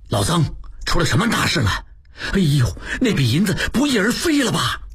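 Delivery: rising alarm, pitch climbing; sudden dread in the question. Acted. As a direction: prisoner sensing disaster. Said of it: "望柏变色道".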